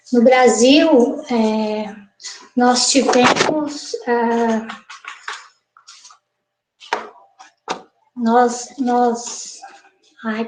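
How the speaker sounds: very slow, hesitant, stumbling, nervous faltering. A speaker addressing a professor starts to answer, nervous and hesitant. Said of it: "tô tão nervosa".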